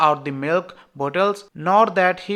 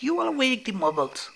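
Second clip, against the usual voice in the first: soft, higher hiss; 6 semitones higher, 6 dB quieter than usual. Acted. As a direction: hiss a warning under your breath. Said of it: "hissed Professor McGonagall".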